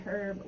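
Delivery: "herb" beginning with an audible H; H sounded in herb. Shown as a demonstration. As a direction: pronounce the H at the start of "herb". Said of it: "with the H sound".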